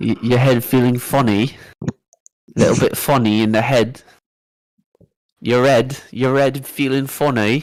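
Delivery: fake British accent, exaggerated and played up. Talking to him to freak him out a little, in a put-on British accent. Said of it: "You talk to him in a British accent".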